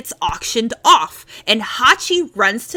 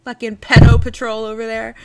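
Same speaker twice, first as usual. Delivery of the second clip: laughing; 5 dB louder than usual. Real, not acted. Teasing friend while laughing.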